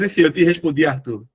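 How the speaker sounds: ordinary talk, nothing marked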